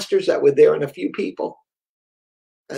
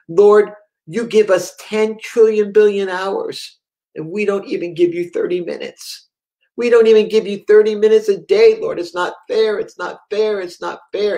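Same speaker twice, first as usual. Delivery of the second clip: raised, pleading voice imitating a boy; retold weeping prayer; 4 semitones higher than usual. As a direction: plead with God like an upset child, lightly acted. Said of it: "he's crying and he's weeping".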